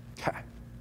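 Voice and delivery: quick unvoiced chuckle at a memory; soft breathy laugh. Real, not acted. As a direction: let a little laugh slip out. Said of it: "I'm sorry, guys".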